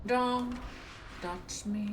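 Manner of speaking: high, loud don't touch me; scared and angry. Real, not acted. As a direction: warn off the killer in panic. Killer closing in.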